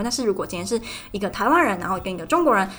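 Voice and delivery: ordinary talk, nothing marked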